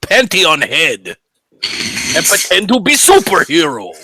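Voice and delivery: put-on Asian accent. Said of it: "your Asian accent".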